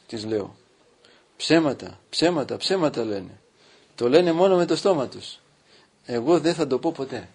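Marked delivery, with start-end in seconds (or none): 1.4-7.3 louder, mocking cries of lies; devil's defiant shout. Devil in the woman scorns the crowd, shouting. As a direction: hurl «ψέματα» back at the priest. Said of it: "Καταλάβατε πώς μιλάει ο διάβολος".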